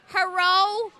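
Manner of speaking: high, loud cat yowl shaped like a word; imitated yowling cat; loud talking meow. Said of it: "he likes to randomly meow really loud".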